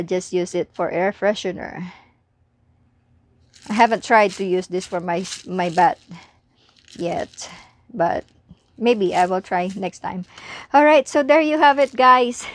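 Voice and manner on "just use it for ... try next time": sleepy voice. Real, not acted. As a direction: talk like you're about to doze off. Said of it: "my, uh, sleepy voice".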